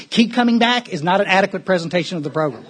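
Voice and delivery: sarcastic. Real, not acted. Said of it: "I'm being really sarcastic".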